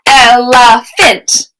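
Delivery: "Elephant" drawn out slowly in three clapped beats, EL, E, PHANT; slow clapped syllables. Shown as a demonstration. Teacher slowly claps out "Elephant" for the class, syllable by syllable. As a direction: clap "Elephant" slowly, one beat per syllable. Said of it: "One more time".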